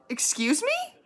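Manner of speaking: way up high, incredulous excuse me; real shocked disbelief at what he said; outraged disbelief. Real, not acted. Recapping the villain teacher, she reacts in outraged disbelief.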